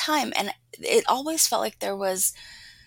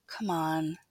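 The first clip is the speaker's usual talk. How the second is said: softly; 3 semitones lower, 4 dB quieter than usual. Acted. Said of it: "he says softly".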